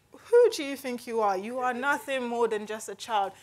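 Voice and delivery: imitated scornful put-down, loud at the start; dismissive. Imagining Samuel belittling young David, mock indignant scorn. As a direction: put the upstart in his place, mock indignation. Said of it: "he was just thinking".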